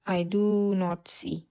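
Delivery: very slow and even, word by word; each word set apart like dictation. Shown as a demonstration. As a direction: spell it out slowly for the learners. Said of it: "teacher dictating a model sentence".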